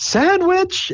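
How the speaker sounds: put-on, very high, sudden exclaiming. Picturing a player's character hopping onto a bar stool: imitating an exclamation. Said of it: "decide to exclaim that you need to eat".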